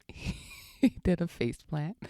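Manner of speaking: slowed down by real laughter; laughing. Real, not acted. Mother telling of her son's tumble, laughing. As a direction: barely get it out for laughing. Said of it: "can't even tell this story without laughing".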